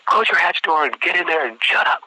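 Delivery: high, exasperated military order; drill-instructor dismissal. Retold or imitated. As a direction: send him off as an imitated sergeant.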